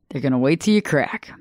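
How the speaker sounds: hushed ominous whisper; whispering so the danger lands. Real, not acted. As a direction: drop to a whisper for the warning. Whispered warning to listeners.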